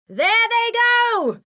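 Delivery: high, slow shrieking shout. A narrator's reading. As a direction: spot them and screech. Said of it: "she shouted".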